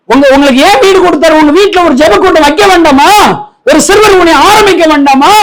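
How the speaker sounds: high-pitched challenging exhortation; forceful preaching. Real, not acted. Preacher challenging believers to start prayer meetings, forceful.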